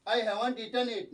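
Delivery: very slow; slow English quote. Retold or imitated. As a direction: dictate slowly.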